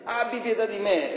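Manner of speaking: crying out for mercy. Retold or imitated. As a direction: call out to Jesus with everything you have. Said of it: "E lui gridò e disse". (il cieco grida forte e acuto)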